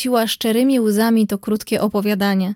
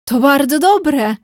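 slow, louder, higher critic's verdict; 4 semitones higher, 5 dB louder, slower than usual. A narrator's reading. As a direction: pronounce it like a self-important critic. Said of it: "tonem krytyka". (powoli i głośno, tonem znawcy-krytyka)

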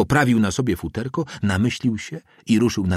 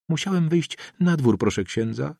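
high-pitched excuse; improvised lie; 8 semitones higher than usual. A narrator's reading. Boy lying on the spot to the priest, high-pitched excuse. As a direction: offer the excuse in a raised little voice. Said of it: "zełgał na poczekaniu".

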